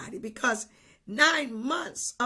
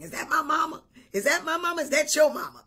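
higher-pitched, mock-doubtful child's questions; mock questioning; 4 semitones higher, 4 dB louder, much faster than usual. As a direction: play at not knowing whose mama it is, rising into a laugh.

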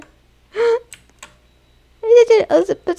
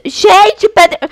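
excited shout; 6 semitones higher, 4 dB louder, much slower than usual. Real, not acted. Excited shout at friend's gift.

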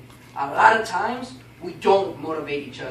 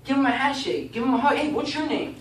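higher-pitched, eager hello; upbeat welcoming voice; friendly greeting; 6 semitones higher than usual. Shown as a demonstration. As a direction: greet a newcomer with energy. Models greeting a newcomer warmly.

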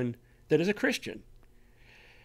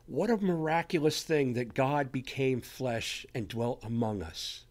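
radio announcer; 2 semitones lower than usual. Retold or imitated. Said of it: "the first thing they said was".

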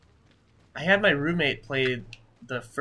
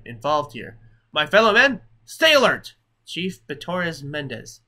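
rally the men like a stern chief; Chief Mendez; 6 dB louder than usual. Acted. Chief alerting villagers, building to a loud rallying call. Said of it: "such an American accent".

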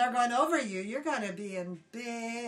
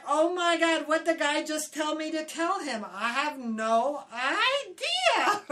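panicked; 4 semitones higher, 4 dB louder than usual. Retold or imitated. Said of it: "And I'm like".

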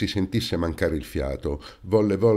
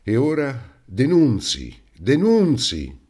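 high shrieking outburst, louder; 7 semitones higher, 6 dB louder, slower than usual. A narrator's reading. Brother shrieking from the next room, high and loud. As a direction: shriek it at the whole house. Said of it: "il fratello strillava di là".

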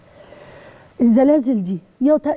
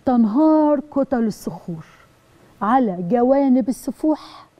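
slow, word by word for copying; نطق بطيء للإملاء; slow dictation; slower than usual. Shown as a demonstration. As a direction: spell out "تنهار كتل الصخور" slowly so students can write it. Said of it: "بنقولها ازاي؟".

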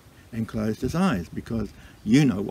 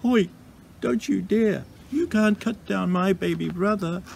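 high, frightened cry at normal volume; quivering with fright; 8 semitones higher than usual. A narrator's reading. Kowhai tree faces the woodcutter, quivering with fright. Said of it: "Quivering with fright, she yelled out".

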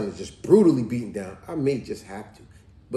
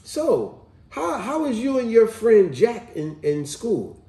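lightly voiced mother, higher pitch; a hint of a mom quizzing her son; higher, louder quoted question; mother's question; 8 semitones higher, 5 dB louder, slower than usual. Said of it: "she said".

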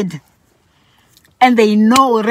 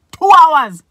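Two hours, higher and louder, stressed; emphatic two hours; 6 semitones higher, 6 dB louder than usual. Real, not acted. Telling viewers about cleaning the old house, emphatic. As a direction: hammer home how long it took.

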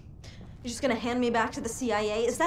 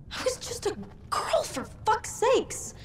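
high, strained, slowed outrage; anguished accusation; 6 semitones higher than usual. Acted. Jody accusing Nathan over her childhood, anguished. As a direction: throw the hurt back at him.

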